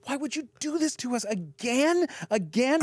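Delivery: lightly voiced exasperated friend; retold angry girl. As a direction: complain bitterly, rising to a whine. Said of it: "the other girl goes".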